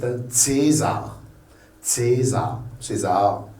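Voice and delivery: "César" begun with a TS sound; German C as TS. Shown as a demonstration. Teacher contrasting with the French C, TS sound. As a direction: say "César" as TSAY-zar. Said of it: "le C français".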